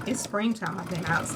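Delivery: hoarse, frog in throat. Real, not acted. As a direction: speak through a froggy throat. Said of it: "I sound like I swallowed a frog".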